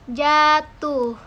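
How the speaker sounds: "jatuh" with both "ja" and "tuh" drawn out; both syllables long. Shown as a demonstration. Lecturer to students demonstrating duration, "jatuh" with both syllables long. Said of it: "diucapkan panjang pada kedua silabanya".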